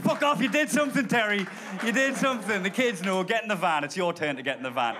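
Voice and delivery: put-on loud jeering kids; mock shout. Neighbourhood kids jeering at the man in his van, loud. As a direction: yell it like taunting kids at a driveway.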